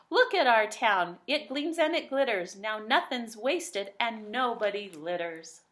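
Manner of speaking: mildly hammed-up cheering crowd; excited townsfolk cheer. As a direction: raise a glass to the hero. Townsfolk toast their hero.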